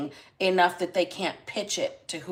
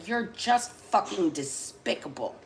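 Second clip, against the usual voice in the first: slow, cold contempt, a little softer; disgusted, disappointed; 4 dB quieter than usual. Retold or imitated. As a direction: let the disgust drip off each word. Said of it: "in an extremely disgusted, disappointed tone of voice".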